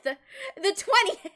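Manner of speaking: slow emphatic repeat of "The twentieth!"; drawn-out emphasis. Shown as a demonstration. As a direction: stretch the twentieth out slowly.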